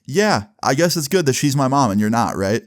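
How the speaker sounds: retold with a touch of attitude; mildly snarky comeback; snarky retort. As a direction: give it a little snark. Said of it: "kinda snarky thing to say".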